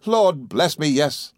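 high, jubilant confirmation; excitable friend. A narrator's reading. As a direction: confirm happy news delightedly.

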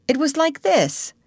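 high-pitched, eager mother showing how; high voice introducing an imitation; attempted demonstration. A narrator's reading. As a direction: lift it high on LIKE, then fall. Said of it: "trying to imitate Peter's crow".

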